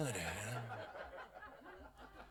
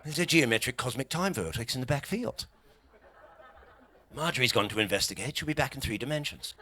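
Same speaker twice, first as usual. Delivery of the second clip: put-on posh English accent. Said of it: "Eccentric part of England".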